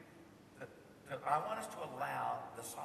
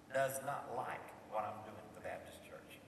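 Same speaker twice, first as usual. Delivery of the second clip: hushed confiding whisper; secretive whisper about a friend; whispered aside; 7 semitones lower than usual. Real, not acted. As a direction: lean in and whisper it.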